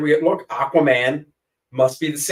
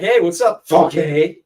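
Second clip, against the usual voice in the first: mock German greeting; 3 semitones higher, 4 dB louder, slower than usual. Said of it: "I could go to Germany and be like".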